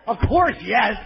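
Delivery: blurted honest answer. Acted. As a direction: answer instantly as if it were obvious. Honest answer to girlfriend's question.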